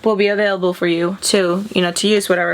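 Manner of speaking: flat robotic machine voice. Pretend. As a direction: read it out like a machine. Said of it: "I don't know why I'm talking like a robot".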